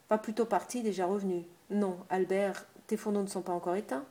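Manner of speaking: lightly voiced innkeeper calling out to her husband from afar; calling from the kitchen. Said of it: "L'aubergiste cria de la cuisine".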